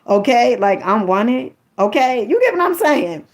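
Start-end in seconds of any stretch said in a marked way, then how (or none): 0.9-1.5 confident sassy I'm wanted; with attitude. Shown as a demonstration. Showing viewers the right way, with attitude. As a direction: own it like you know it. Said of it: "say it like you know".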